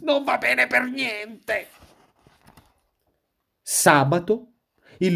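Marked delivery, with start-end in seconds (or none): 0.0-1.7 horrified exclamation. A narrator's reading. Wolf covered in orange peel, horrified exclamation. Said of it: "ed esclamò".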